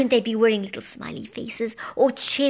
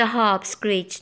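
ordinary delivery

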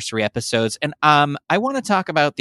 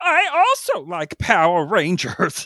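silly, goofy put-on puppet voice, pitched up; 7 semitones higher than usual. On an episode done in Muppet voices, chiming in with a Muppet voice. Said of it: "Muppet voices".

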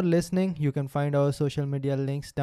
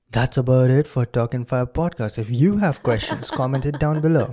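loud radio DJ voice; 7 dB louder than usual. Closing out the Talk and Fire podcast episode for listeners: radio jockey voice. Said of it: "That's my radio jockey voice".

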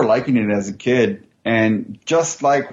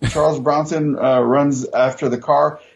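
usual speaking voice

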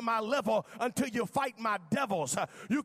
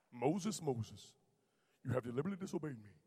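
very deep, hushed, soft booming voice; 9 semitones lower, 9 dB quieter than usual. Voicing God calling Moses, in a James Earl Jones voice. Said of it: "God talks like James Earl Jones".

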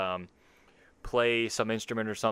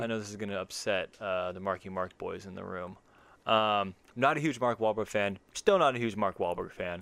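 ordinary talk

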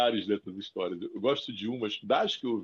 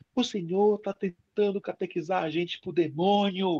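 put-on voice, high, shouted outburst; 9 semitones higher than usual. Retelling a student standing up in class: imitating a student shouting. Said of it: "levanta e grita e aponta o dedo".

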